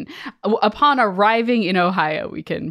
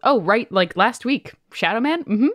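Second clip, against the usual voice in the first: high, sing-song mock voice of a casual emailer; mock incredulous listener; 5 semitones higher than usual. Co-host mocking a listener's offhand shadow man mention, in a high teasing voice. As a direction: tease the listener by playing her breezy email.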